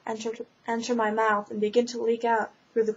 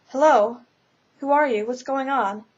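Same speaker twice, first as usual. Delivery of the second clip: a lost soul shouting to be heard; calling out loud; 4 dB louder than usual. Acted. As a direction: call out as loud as you can into the void. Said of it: "I thought as loud as I could".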